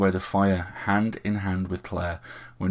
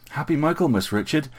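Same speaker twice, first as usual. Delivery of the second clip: higher, smiling greeting; pretty smile; 8 semitones higher, 3 dB louder than usual. A narrator's reading. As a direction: greet him sweetly, politely. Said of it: "she said with a pretty smile".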